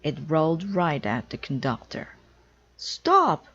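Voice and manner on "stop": loud high shout; yell. Acted. Conductor as a drum rolls at him, loud yell. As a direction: bellow it to halt the drum. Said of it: "he yelled".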